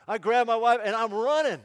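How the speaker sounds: loud, high and thrilled, telling it at full tilt; breathless joy of finally owning the land; excited rush. Acted. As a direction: burst out like you're sprinting to the field. Running with the deed in hand.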